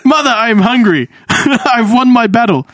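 lightly hammed Russian-accented son; mock Russian accent. Son calling to his mother, mock Russian accent. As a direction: play a Russian son, giggling between phrases. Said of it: "had, like, a Russian accent".

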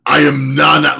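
lightly voiced proud declaration; Nana's proud intro. Nana introduces himself, a hint of proud declaration. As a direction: announce yourself with a fist on the chest. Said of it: "That's how Nana said it".

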